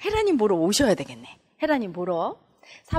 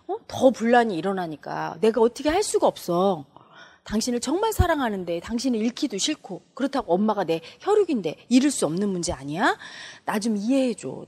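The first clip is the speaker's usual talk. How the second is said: heartfelt plea; 2 semitones lower, 3 dB quieter than usual. Shown as a demonstration. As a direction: open up sincerely, as in a demonstration. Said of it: "이렇게 진심으로 소통하는 방법". (진심으로 낮게 호소하듯)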